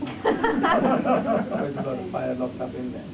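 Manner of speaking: laughing slowly through the words. Real, not acted. Teacher to student, laughing through it. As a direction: chuckle as you say it. Laughing about bushfire joke.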